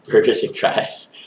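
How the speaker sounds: slow, chuckled words; laughing. Real, not acted. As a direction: say it through a small laugh. Chuckles at own pun on title.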